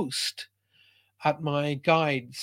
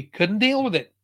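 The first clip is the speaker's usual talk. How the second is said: retold distress; 5 semitones higher, 5 dB louder than usual. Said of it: "crying like a baby".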